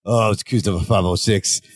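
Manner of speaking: a hint of a grizzled jailbird; old ex-con. Host retelling the episode, a touch of ex-con. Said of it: "talking like he's an old ex-con".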